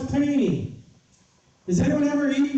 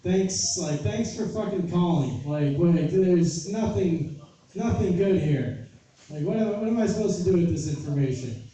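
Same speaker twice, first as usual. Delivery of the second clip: sarcastic thanks; 5 semitones lower than usual. Retold or imitated. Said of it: "And I was like".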